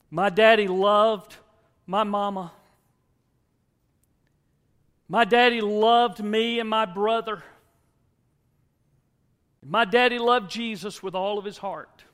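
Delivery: high, loud and slow, every word ringing out; loud declaration. Retold or imitated. A grieving daughter at her father's casket, loud and proud. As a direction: proclaim it across the funeral hall. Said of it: "said in a voice loud enough for everybody to hear".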